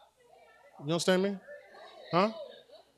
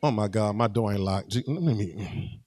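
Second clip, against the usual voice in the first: mock panic; 10 semitones lower, 7 dB quieter than usual. Worshipper panics about unlocked door.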